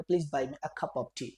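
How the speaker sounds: slow, clear teacher demo; slow drilled sentence; slow model sentence. Shown as a demonstration. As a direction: model it slowly. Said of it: "English में बोलेंगे".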